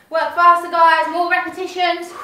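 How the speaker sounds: loud coaching shout; calling out. Real, not acted.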